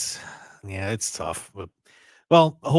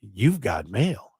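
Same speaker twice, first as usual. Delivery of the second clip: AOL alert imitation; 3 semitones lower, much slower than usual. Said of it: "and then you'd hear".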